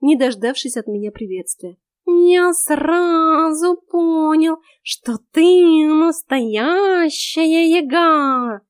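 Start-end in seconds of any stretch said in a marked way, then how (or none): 2.1-8.6 high, very slow, louder cat voice; a cat buttering up his mistress; talking cat flattering the heroine, high and drawn out; fawning cat. A narrator's reading. Cat Vaska fawning over heroine.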